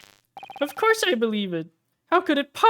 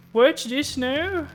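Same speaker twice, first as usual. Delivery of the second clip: slow, puzzled character voice; 7 semitones higher, much slower than usual. Acted. Character caught off guard, slow.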